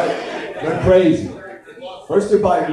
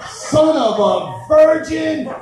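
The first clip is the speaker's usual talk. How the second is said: Jesus cursing; 9 semitones higher, much slower than usual. Retold or imitated. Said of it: "he'd go".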